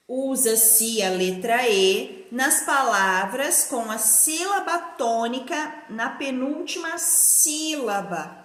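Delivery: chunked phrases for copying; measured classroom dictation; slow dictation. Shown as a demonstration. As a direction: dictate it in spaced word groups. Teacher dictates answer to write.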